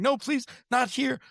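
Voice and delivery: high-pitched mock plea, slowing at the end; mock pleading. Man being stuffed into an ale barrel, mock pleading. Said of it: "you hear him as he's going in going".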